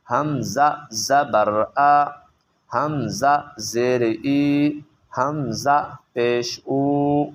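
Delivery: letter, then vowel mark, then sound, each set apart; slow drill. Shown as a demonstration. Teacher drills hamza and ha with vowel marks, slow and clear. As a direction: spell it out clearly like a reading primer. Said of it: "کیسے؟".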